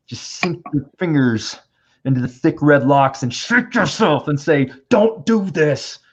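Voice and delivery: slow, high, drawn-out plea; pleading to younger self. Pretend. Shaking his younger writer self, slow high pleading. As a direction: beg your past self to stop, slowly.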